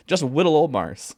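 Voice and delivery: "whittle" said with a w where the l of little goes; says w for l. Pretend. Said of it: "All L's are W today".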